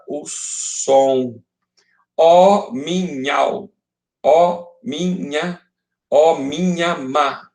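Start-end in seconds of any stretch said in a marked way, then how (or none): 2.1-7.5 "ó minha" repeated in slow, separated syllables; escansão. Shown as a demonstration. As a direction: scan slowly up to a held "ma", dropping "da" after a pause. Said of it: "Contei até o má". ("ó minha amada" escandido devagar, até o MA)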